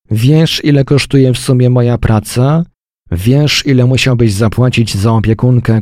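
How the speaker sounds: high, loud furious wife; furious outburst. Acted. Wife shouting at her husband, loud and high in fury. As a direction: lash out at him.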